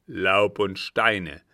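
loud, slow, grim echo; grimmest tone. A narrator's reading. Captain echoing the count's discovery, very grim. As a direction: grind it out with grim anger. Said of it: "wiederholte der Kapitän in grimmigstem Tone".

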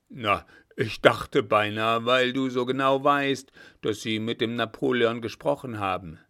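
loud, emphatic commander easing off; needling old marshal. Acted. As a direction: tease the officer with gruff suspicion. Blücher needles the young officer. (stichelnder alter Feldmarschall)

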